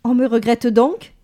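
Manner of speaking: high, loud rapturous cry; thrilled, breathless exclamation; ecstatic. Acted. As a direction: gush with delight at being missed. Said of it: "d'une voix extasiée".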